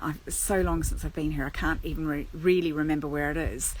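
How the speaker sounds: usual speaking voice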